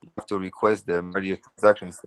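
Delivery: choppy, cutting-out mic; bad connection. Real, not acted. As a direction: voice breaking up over a laggy call. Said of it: "No, it's cutting out frequently".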